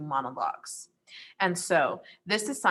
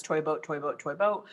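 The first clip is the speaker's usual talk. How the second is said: tongue-twister drill; 3 dB quieter than usual. Shown as a demonstration. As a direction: recite it as a vocal warm-up. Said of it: "you'll choose some tongue twisters to do".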